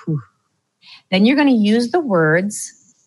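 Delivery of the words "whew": relieved exhale. Retold or imitated. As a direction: let out an empty, spent whew. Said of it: "like, whew".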